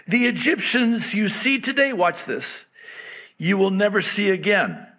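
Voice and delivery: rally the fearful people; Moses commanding. Retold or imitated. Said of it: "He says".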